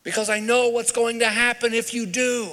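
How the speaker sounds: slow, drawn-out, high-pitched pleading; heartfelt plea. Retold or imitated. Jesus to the Pharisees, pleading from the heart. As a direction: plead earnestly, stretching each word. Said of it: "the heart of what he was saying was".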